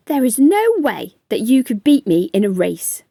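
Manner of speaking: the proud ant, scoffing at the snail; boastful ant. Acted.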